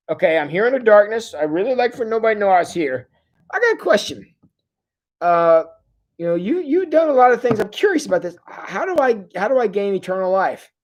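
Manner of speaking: a hint of a timid visitor; nervous Nicodemus. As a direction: ask like a man sneaking a question. Nicodemus voiced secretly asking.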